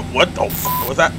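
startled squeak breaking through; squeaky voice. Real, not acted. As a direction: voice squeaking up in fright. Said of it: "Did my voice squeak?".

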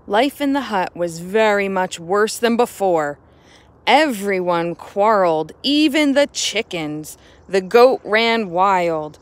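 put-on expressive read-aloud storytelling for kids; story narration. A narrator's reading. Teacher reading a picture book to the class, expressive narration. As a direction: draw the children into the tale.

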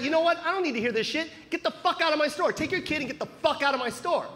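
lightly acted fed-up storekeeper; cursing salesman. Salesman throwing mom out of his store, mock-angry cursing. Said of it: "the guy started cursing at my mom".

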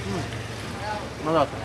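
chewing while talking; muffled by food; mouth full. Real, not acted. Seen 2: Bit jilapi just before; lips closed and working while saying hmm.

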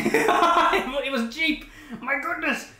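laughing through the words. Real, not acted. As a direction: burst out laughing while saying it. Laughing at own line.

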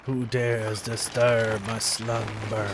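slow, ominous growl; Cave of Wonders voice. Retold or imitated. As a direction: boom like a waking cave. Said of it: "that's an Aladdin reference".

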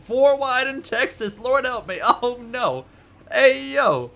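high-pitched, half-laughing panic; panicked exclaiming. Real, not acted. Racer caught four wide in Texas, high panic. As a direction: plead for help in a high voice.

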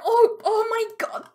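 fast overwhelmed whisper. Real, not acted. Player overwhelmed by the chaos on screen, quick whisper. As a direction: breathe it out, overwhelmed.

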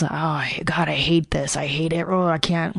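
soft, half-whispered groan of self-disgust; disgusted self-talk. Retold or imitated. Hearing her own recording, a soft pained groan. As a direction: cringe away from your own voice. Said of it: "I wouldn't listen to recordings of my voice".

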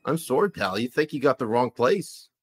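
polite, puzzled Canadian with an "eh"; comic Canadian accent, rounded "sorry". Acted. Host checks what the visitor said, Canadian accent. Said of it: "that was a good Canadian accent".

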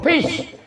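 short high "pish" sound; a quick, high-pitched spit of sound; imitated hiss noise. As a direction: imitate a sudden hissing noise. Imitated noise in cat story.

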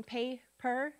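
pay-per said as two separate syllables; split by syllable. Shown as a demonstration. Teacher counting syllables with students, pay-per in two beats. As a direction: break pay-per between pay and per. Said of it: "How many syllables in".

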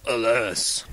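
mournful tree voice on a long sigh. A narrator's reading. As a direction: sigh it out as a weary old tree. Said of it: "a sighing voice came from the tree".

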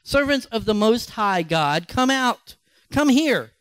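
rising call to come out. Acted.

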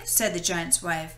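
lively read-aloud story voice; storybook narration. A narrator's reading. Narrator reading Jack and the Beanstalk to children, storytelling. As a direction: tell it like a bedtime story to kids. Reads fairy tale to children.

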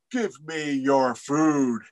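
Raven insisting on food. Acted. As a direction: lay it down slowly and firmly. Raven demands food again.

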